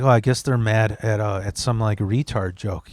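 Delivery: downplay it under your breath; quiet and sheepish. Retold or imitated. Sheepish aside to friend.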